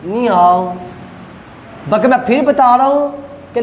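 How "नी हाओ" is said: नी हाओ with नी rising; नी rising, हाओ dipping; tone sandhi demo. Shown as a demonstration. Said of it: "change कर रहा हूँ second के अंदर". (नी हाओ, नी सेकंड टोन में)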